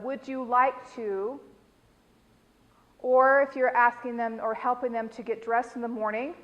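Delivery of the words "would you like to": gentle offer. Shown as a demonstration. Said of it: "So maybe say something along the lines of".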